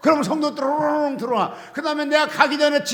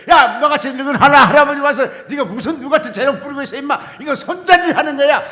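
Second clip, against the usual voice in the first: loud, laughing voice of God; God teasing an old man; 5 dB louder, faster than usual. Retold or imitated. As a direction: tease him like a grandfather. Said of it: "하나님 그랬을 거예요". (늙은 할아버지를 놀리는 하나님 목소리, 웃으며)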